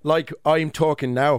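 slow, lilting Irish brogue; put-on Irish lilt; Irish accent. Shown as a demonstration. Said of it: "could you quickly do an Irish accent".

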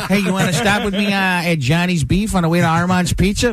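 lightly voiced Chicago guy, talking fast; Chicago local. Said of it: "They'll be like".

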